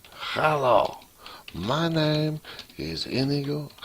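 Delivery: high, slow swashbuckler voice, hammed up; poor Inigo Montoya impression. Coder shows off his Inigo to viewers, high mock hero voice. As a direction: play the vengeful Spanish swordsman, badly. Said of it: "very poor impression of him".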